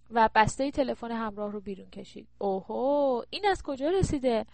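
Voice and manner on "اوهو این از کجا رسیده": impressed exclamation, lifting in pitch; delighted surprise. Acted. Daughter spots a mobile phone in mother's drawer, delighted surprise. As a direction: marvel at an unexpected find.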